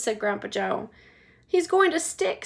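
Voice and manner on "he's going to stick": put-on high anxious boy's voice; worried prediction. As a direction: Charlie worrying, high. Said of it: "said Charlie".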